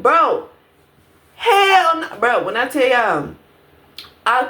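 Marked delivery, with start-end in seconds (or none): 0.0-2.2 disbelief. Retold or imitated. Outraged reply retold to herself.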